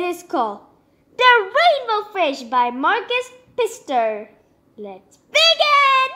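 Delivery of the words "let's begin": high, loud and slow cheer; excited start. Real, not acted. Vlogger opening the story to her viewers, bright, drawn-out cheer. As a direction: kick off storytime with a big cheer.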